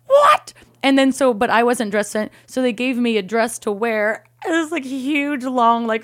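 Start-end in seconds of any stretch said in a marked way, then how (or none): 0.1-0.5 high, loud mock yelp of disbelief; hammed-up shriek of shock. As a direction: blurt it out, aghast. Retold shock at a cappella demand.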